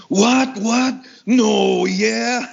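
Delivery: excited disbelief. Retold or imitated. Friend hearing of a gig, excited and high. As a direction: burst out in eager surprise. Manny excited at show offer.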